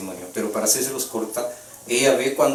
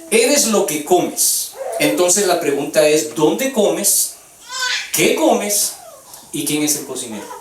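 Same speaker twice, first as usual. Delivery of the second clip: slow, loud, higher and pounding; preaching emphasis; 5 semitones higher, 4 dB louder, slower than usual. Real, not acted. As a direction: drive each question home from the pulpit. Preacher drives home point. (predicador enfático, lento y fuerte)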